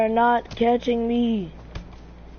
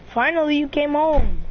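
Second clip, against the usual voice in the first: higher, louder mock greeting; teasing welcome; 4 semitones higher, 5 dB louder than usual. Gamer teasing Hamza arriving, excited greeting. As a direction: greet him with fake excitement.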